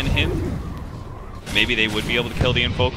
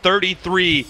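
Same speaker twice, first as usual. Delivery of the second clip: live play-by-play; 3 semitones higher than usual. Real, not acted.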